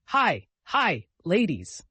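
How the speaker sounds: high, loud repeated calls; warning yells. A narrator's reading. Vicar yelling that ladies approach, high and loud. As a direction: yell the alarm across the clearing. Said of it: "Yells and widening circles".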